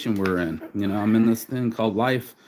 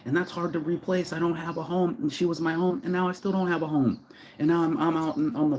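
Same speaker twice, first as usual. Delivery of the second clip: pleading, close to tears, pitched up; emotional; 5 semitones higher than usual. Real, not acted. To the camera about losing her, emotional and higher. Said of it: "I'm emotional".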